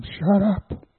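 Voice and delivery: mock angry shout; retold shout. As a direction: snap it at crying kids to stop. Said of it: "shout at them".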